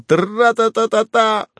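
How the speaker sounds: high, slow, loud rat-a-tat; play-acting a machine gun, shouting the burst; a grown man's childish gun noise, yelled up high; shouted gunfire noise. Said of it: "и закричал".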